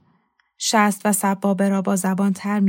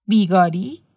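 mildly incredulous question; a touch of disbelief, voice rising at the end; taken aback; 3 dB louder than usual. A narrator's reading. Host questioning the offer of unpaid labour, taken aback.

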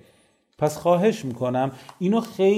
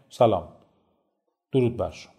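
subdued, low-energy hello with a long pause; indifferent greeting; 5 semitones lower than usual. Shown as a demonstration. Trainer shows same content delivered differently, subdued and indifferent. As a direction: drop the greeting without any engagement.

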